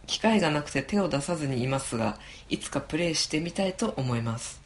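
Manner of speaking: polite letter reading voice; reading a letter aloud. Acted. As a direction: read the listener mail steadily. (お便りを丁寧に読み上げる声)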